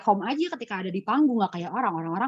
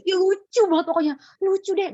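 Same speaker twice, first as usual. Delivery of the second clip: giggly teasing; 10 semitones higher, 5 dB louder than usual. Retold or imitated. Friend giggling before the story.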